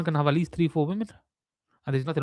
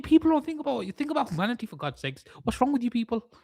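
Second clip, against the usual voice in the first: mock preaching; 5 semitones higher than usual. Mock preaching about charity.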